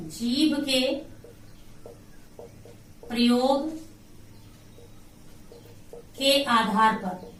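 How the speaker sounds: slow, broken-up teacher's dictation. Shown as a demonstration. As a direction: piece by piece with long pauses. Dictates phrase while writing it.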